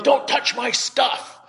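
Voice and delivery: high, slow, mock angry warning. Stranger warns preacher off his bag, mock angry. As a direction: bark it like a territorial stranger. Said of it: "he started getting mad at me".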